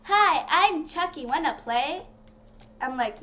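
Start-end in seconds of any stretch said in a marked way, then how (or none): 0.0-2.1 mock Chucky. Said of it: "that's what Chucky says".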